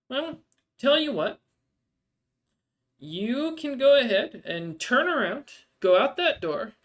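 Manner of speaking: high, loud haggler, easing down toward the end; dwarvish barmaid, scornful. Acted. Barmaid sending a lowballer to the fool shop, high and scornful. Barmaid rebuffs a low offer.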